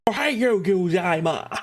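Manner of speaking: mock English speaker attempting Japanese; English-accented Japanese. Shown as a demonstration. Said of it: "when we try to speak".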